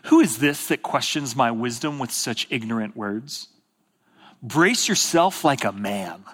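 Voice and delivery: low, measured rebuke; God's voice. Acted. Preacher reads God confronting Job, low and grave. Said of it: "here's what he says".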